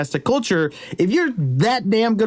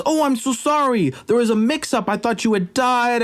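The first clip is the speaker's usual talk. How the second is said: higher-pitched, put-on sorry; mock apology; 5 semitones higher than usual. King excuses the mix-up to the warrior, mock apologetic. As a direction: play an exaggerated, excusing apology.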